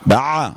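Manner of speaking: voiced throat closure on "بع"; choked ayn. Shown as a demonstration. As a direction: squeeze off the breath at the end of "بع". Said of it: "أنا عايز العين بها إيه؟".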